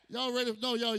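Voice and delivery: loud crowd-pumping call; hype call. Real, not acted. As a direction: pump up the crowd. Hyping crowd.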